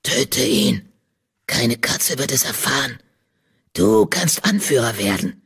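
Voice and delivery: low, dark tempting voice; a spirit hissing in his ear; dead tyrant's low whispered temptation; ghostly whisper. A narrator's reading. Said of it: "Tigersterns Stimme in sein Ohr flüstern".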